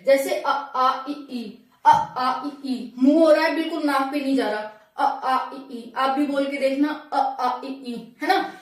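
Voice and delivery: अ आ इ ई sounded purely from the mouth; teacher showing non-nasal vowels; oral vowels demo. Shown as a demonstration. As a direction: open mouth for अ आ इ ई, no nose. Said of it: "ये बिल्कुल मुंह से हो रहा है".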